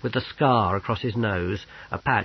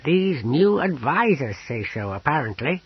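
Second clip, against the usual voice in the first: higher-pitched character voice, reporting earnestly; naive Owlglass, passing on news; 5 semitones higher than usual. A narrator's reading. Companion relaying the Emperor's assurance, earnest and high. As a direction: put on a high voice for a reassuring report.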